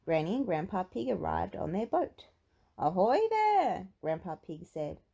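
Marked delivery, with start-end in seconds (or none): 2.8-3.9 high, loud, drawn-out hail; sailor's long loud greeting; hearty calling out. A narrator's reading. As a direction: call out from a boat, stretching the words. Grandpa calls from his boat.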